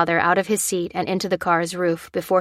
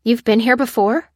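shocked, voice raised; aghast, higher and louder; 4 semitones higher, 5 dB louder than usual. Acted.

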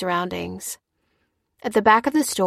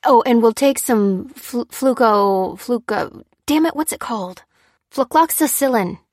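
raised, irritated stumbling over a word; seething, higher-pitched impatience; snapping, seething; 5 semitones higher, 5 dB louder than usual. A narrator's reading. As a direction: snap while fumbling for the name. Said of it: "snapped Lucy, still seething".

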